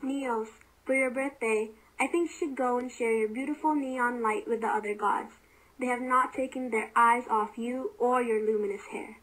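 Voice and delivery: hushed, voiced stage whisper; Apollo. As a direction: speak softly and confidentially. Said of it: "Apollo whispers".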